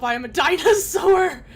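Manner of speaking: playful monster voice; dinosaur roar. Pretend. Playing as a dinosaur.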